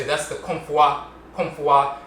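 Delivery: That's the Komfwa with the fwa glide; Guyanese Asante usage. Retold or imitated. Teacher quoting Guyanese speakers, Komfwa. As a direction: Komfwa said twice, lightly voiced. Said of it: "so they would say".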